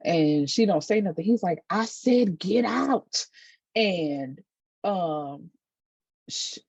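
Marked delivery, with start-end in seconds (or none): 1.7-3.3 retold angry order. Brother ordering sister out, retold.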